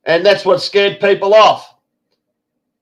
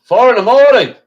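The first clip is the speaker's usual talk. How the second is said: surprised echo; 5 semitones higher, 5 dB louder than usual. Real, not acted. Host surprised at guest's 4am.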